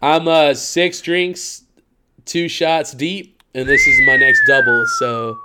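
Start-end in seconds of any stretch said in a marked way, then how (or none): 3.7-5.4 squeaky high voice. Real, not acted. Drunk brag, voice jumps.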